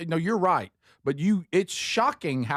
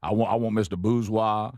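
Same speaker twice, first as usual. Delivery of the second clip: put-on Cajun accent; 3 semitones lower than usual. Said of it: "picked the slang up".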